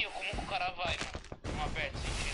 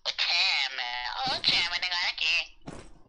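calling out; 7 dB louder, much slower than usual. Real, not acted. Calling a teammate in game.

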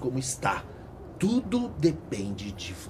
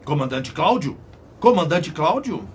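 calling out; 4 semitones higher, 9 dB louder than usual. Acted. Voice calls sleeping Cláudio.

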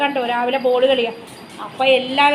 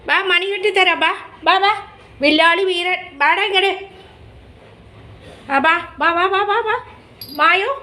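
hoger, lokkend roepen naar het dier; coaxing the pet; 4 semitones higher than usual. Real, not acted. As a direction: lok hem zingend naar je toe.

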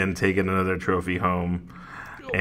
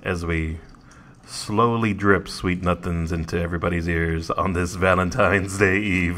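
sexy voice; 2 semitones lower than usual. Pretend. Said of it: "Is that your sexy voice?".

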